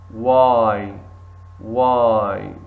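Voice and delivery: why said like the letter Y; why, W sounded; model word. Shown as a demonstration. Teacher models why like the letter Y. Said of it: "But we say here".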